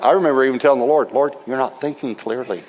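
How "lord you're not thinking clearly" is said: a quieter, laughing objection; laughing protest. Retold or imitated. Preacher laughingly arguing with the Lord. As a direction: tease the Lord through a laugh.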